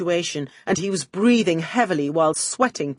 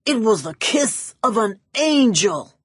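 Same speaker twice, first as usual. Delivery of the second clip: swooning; 4 semitones higher than usual. Acted. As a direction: sigh it out in rapture. Max swooning.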